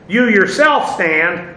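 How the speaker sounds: slow, deliberate weight on "you yourself"; emphatic pronoun. Shown as a demonstration. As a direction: lean on "you yourself", unhurried. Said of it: "he uses an emphatic pronoun".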